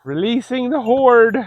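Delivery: mock epic announcement. Announcing animals let out again.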